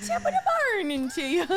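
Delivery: quick, eager Irish greeting; attempted Irish accent. Co-host practising after host, attempted Irish accent. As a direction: copy the Irish lilt briskly. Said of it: "You're getting there".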